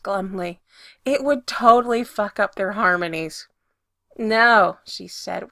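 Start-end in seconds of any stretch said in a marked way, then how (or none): 4.2-4.8 louder, a forceful no. A narrator's reading. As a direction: shut him down hard. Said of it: "a lot more forcefully".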